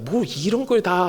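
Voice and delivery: slow, pleased token protest; grateful demurral. Acted. Receiver takes the gift anyway, grateful token protest. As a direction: protest slowly as you accept it. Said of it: "고맙다는 뜻이잖아요".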